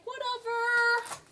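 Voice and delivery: high, slow drawn-out whatever; mock shrug. Talking herself out of missing donuts, mock dismissive. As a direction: brush it off theatrically. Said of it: "it's like".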